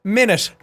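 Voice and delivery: "Minute" with the T softened towards SH; soft Irish T. Shown as a demonstration. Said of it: "an S H sound".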